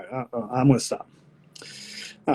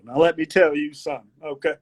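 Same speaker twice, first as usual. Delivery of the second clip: put-on Southern country accent. Country boy starting his speech, Southern accent. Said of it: "I actually enjoy this accent".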